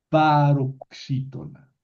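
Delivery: paroxítona said slowly, every syllable spaced; term stressed slowly. Shown as a demonstration. Teacher names the stress type slowly to students. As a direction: spell out paroxítona by ear. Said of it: "Noten que es una palabra".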